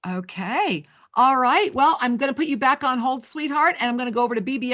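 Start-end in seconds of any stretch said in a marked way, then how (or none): 0.1-0.8 whispered under the breath; host whispering while line is dead; whispered okay. Real, not acted. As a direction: breathe it off mic. Host aside while caller is silent.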